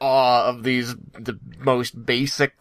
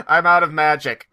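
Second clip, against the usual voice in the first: mildly whiny retold Ed, a bit louder; half-hearted imitation of Ed out of magic; Ed's complaint; 5 semitones higher, 4 dB louder than usual. Friend retelling Ed's complaint mid-fight, lightly mocking.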